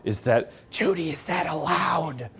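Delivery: hushed, unsure murmur to a neighbour; a mock-anxious hushed question; nervous whispered aside. Guests whispering to each other, timid and unsure. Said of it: "looking at each other like".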